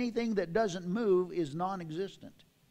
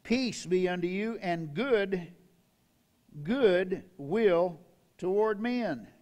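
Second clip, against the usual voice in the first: reverent blessing; slower than usual. Acted.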